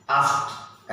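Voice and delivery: आस्क्ड joined into one syllable; model pronunciation of आस्क्ड. Shown as a demonstration. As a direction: demonstrate आस्क्ड, ending on the joined consonants. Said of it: "ऐसे". (आस्क्ड को जोड़कर बोलकर दिखाना)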